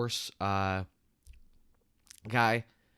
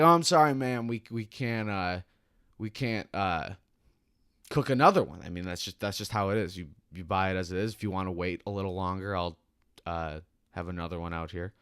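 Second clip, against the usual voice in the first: fake polite smile; 3 semitones lower than usual. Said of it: "bullshit Hy-Vee smile on my face".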